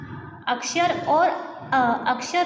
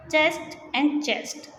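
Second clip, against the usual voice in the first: slow demo; much slower than usual. Shown as a demonstration. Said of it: "pronounce same कर रहे हैं".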